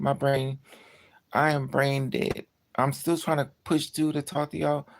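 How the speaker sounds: usual speaking voice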